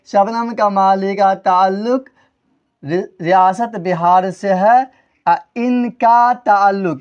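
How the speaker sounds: slow, measured reading of an example; slow dictation. Shown as a demonstration. Teacher repeating an example sentence to class, slow dictation. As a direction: draw the sentence out for students.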